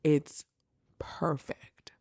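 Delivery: breathy whispered perfect, said slowly. Shown as a demonstration. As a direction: lean in and whisper it like a secret. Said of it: "Look, one more time".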